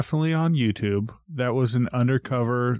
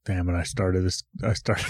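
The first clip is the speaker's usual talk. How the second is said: low voice; 4 semitones lower than usual. Real, not acted. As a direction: sink the voice low. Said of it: "You got all low".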